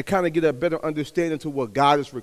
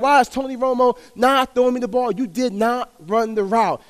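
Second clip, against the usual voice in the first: upset receiver; 6 semitones higher than usual. Retold or imitated. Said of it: "Like, he's upset".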